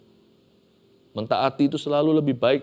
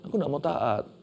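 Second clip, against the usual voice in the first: higher and louder whiny pleading; complaining Moses; 5 semitones higher, 3 dB louder than usual. Acted. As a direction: whine like a servant begging off the job. Preacher acts out Moses' excuses.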